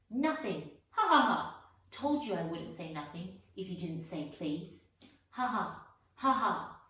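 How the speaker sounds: mocking cackle. Peeves gloating over Filch, loud mocking laughter.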